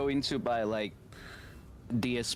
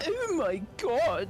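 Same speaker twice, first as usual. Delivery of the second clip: put-on high, slow girly exclamation; feminine voice; 12 semitones higher, slower than usual. Shown as a demonstration. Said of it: "Can you talk very feminine?".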